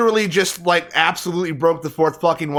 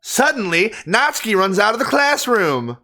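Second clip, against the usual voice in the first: higher, theatrical narrator; playful storytelling, pitched up; dramatic story narration; 4 semitones higher than usual. Acted. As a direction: narrate the dramatic exit with mock gravity.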